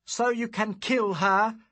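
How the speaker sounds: loud, high retort; shot back. Acted. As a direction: fire the question back. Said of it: "I shot back".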